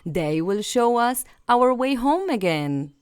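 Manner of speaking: a hint of young Hansel, hopeful.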